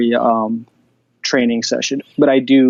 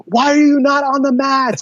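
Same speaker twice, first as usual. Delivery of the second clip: mocking his coach; 10 semitones higher than usual. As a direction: ham up a baffled instructor. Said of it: "then Edson's like".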